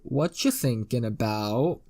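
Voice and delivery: WHAT YOU THINKING ABOUT, slow, each syllable stressed; emphasis on every syllable. Acted. Man teasing the pinned girl, every syllable of "What you thinking about" stressed slowly. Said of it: "put sure emphasis on every syllable".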